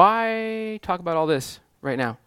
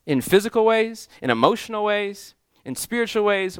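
preacher lifting the list up high; rising fervour; 6 semitones higher than usual. Real, not acted. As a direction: climb on each item of the list.

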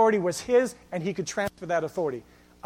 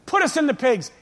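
raised, hammed-up pleading; pleading demons; 3 semitones higher, 5 dB louder than usual. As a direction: act out demons begging, loud at first. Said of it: "the demons are pleading".

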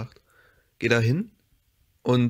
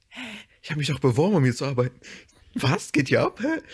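mock confused; 3 semitones higher, faster than usual. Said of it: "ich war richtig verwirrt".

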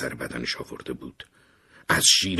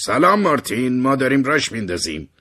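higher and louder, a cheery shout from the window; excited call; 8 semitones higher, 7 dB louder than usual. Acted. Harry leaning out the window, shouting hello excitedly. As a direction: call out gleefully to Martin.

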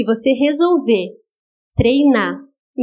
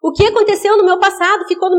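firm rebuke; 5 semitones higher than usual. Shown as a demonstration. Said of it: "você vai repreender e vai dizer".

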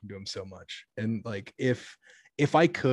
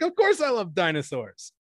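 put-on sweet kid-friendly voice; 7 semitones higher, 4 dB louder than usual. Cashier answering a four-year-old, high sugary voice. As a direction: gush sweetly at a small child. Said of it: "I did not say that to a child".

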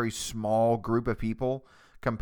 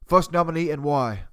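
Gordon Ramsay; 3 semitones higher, 4 dB louder than usual. Pretend. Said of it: "right in the middle of impersonating Gordon Ramsay".

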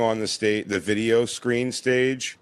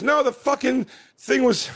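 much higher, squeaky mock protest; flustered squeaky defence; 13 semitones higher than usual. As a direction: squeak out a panicked excuse. Acting his own flustered defence.

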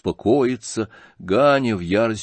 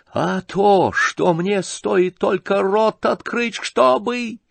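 very high, broken-off outburst; sudden yell; 10 semitones higher, much slower than usual. A narrator's reading. Ганя threatening his father, sudden high yell. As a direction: wail it out high, stop unfinished. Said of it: "завопил вдруг Ганя и не договорил".

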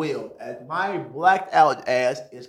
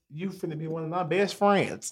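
laughing; 5 dB quieter than usual. Retold or imitated. Laughing joke quote.

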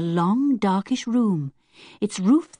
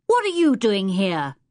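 mock shout; 2 semitones higher than usual. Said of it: "he shouted".

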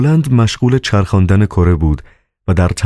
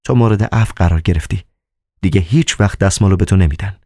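regal; 3 semitones higher, faster than usual. A narrator's reading. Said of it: "با هیبتی سلطانی گفت".

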